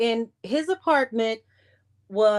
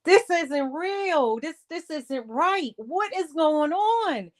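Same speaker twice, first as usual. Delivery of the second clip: in shock; 6 semitones higher than usual. Retold or imitated. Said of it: "I'm still in shock".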